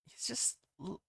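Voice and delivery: loosely Australian-tinged voice for the detective; a half-hearted Australian accent for the character; lightly Australian-flavoured reading; vaguely Australian accent. Acted. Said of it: "he's just gonna have this vaguely Australian accent".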